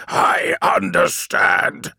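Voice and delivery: rasping, slow, menacing; harsh whispered snarl. Acted. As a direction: spit the words out in a hoarse rasp. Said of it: "he said again".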